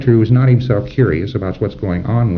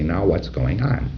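gentle question; 3 semitones lower, 5 dB quieter, slower than usual. Shown as a demonstration. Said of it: "Look at him for a command or two. Now say".

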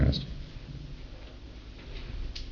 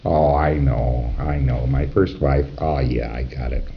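dawning realisation; 8 semitones lower, 4 dB quieter, slower than usual. Retold or imitated. PC realising, low and slow.

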